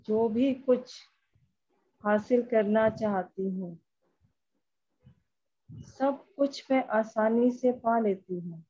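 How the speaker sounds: measured meditation voice, phrase by phrase; guided affirmation. Acted. Leading a group through EFT tapping, measured guided affirmation. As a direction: recite affirmations with pauses for others to follow.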